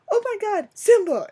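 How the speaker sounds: high, loud fangirl squeal; excited retold scream. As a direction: re-enact screaming at a beloved find. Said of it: "I literally screamed".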